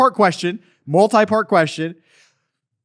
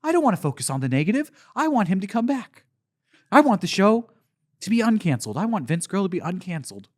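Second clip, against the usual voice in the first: mock fan gush; 2 semitones lower, 5 dB quieter than usual. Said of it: "You're gonna be like".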